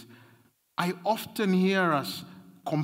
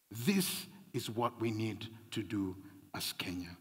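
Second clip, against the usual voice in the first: whispered; 6 semitones lower, 9 dB quieter than usual. Acted. Pastor's hushed closing line.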